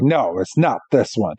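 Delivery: acted mild discouragement; discouraged. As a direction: voice a touch of disappointment, dropping in pitch. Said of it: "gets discouraged and is like".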